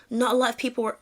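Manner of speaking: botched attempt at an American accent; a shaky stab at an American accent. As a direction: try an American accent and miss. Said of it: "let me read it in American accent".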